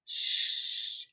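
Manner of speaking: "Sh" as one long unvoiced hushing sound; sounding out digraph. Shown as a demonstration. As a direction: hold the consonant of "Sh" with no vowel. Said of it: "it has a digraph".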